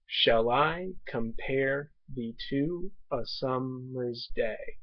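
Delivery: slow, measured reading of the verse line; poetry recitation. Shown as a demonstration. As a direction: read it slowly like a sonnet. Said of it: "the example from Shakespeare's sonnet".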